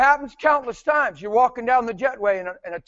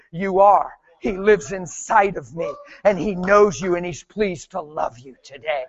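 calm, lower reassurance; 3 semitones lower than usual. Retold or imitated. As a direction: settle into a gentle assurance as it goes. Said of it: "I just calmly said".

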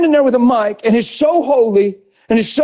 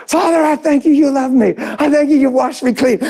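congregant praise; 5 semitones higher than usual. Retold or imitated. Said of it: "People started rising up confessions".

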